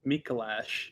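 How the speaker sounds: short "a" at the end of "Mikolash"; trying out pronunciation. Shown as a demonstration. Checking aloud how he really says it, MEE-ko-lash. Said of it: "No, I say Mikolash".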